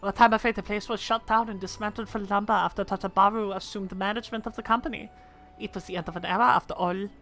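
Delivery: a hint of an aged gentleman narrating; lightly voiced old man. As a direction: reminisce gently like an old inventor.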